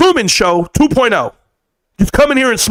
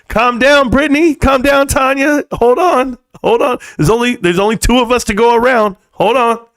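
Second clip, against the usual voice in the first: put-on juggling girlfriends; 4 semitones higher than usual. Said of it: "I'd be like".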